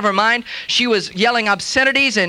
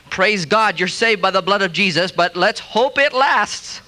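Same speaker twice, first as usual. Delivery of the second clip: mock doubtful blessing; 3 semitones lower, slower than usual. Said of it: "say to some new believer".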